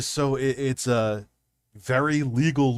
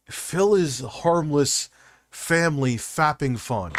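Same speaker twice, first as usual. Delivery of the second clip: mock slogan; 4 semitones higher, 4 dB louder, slower than usual. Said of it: "mock slogan".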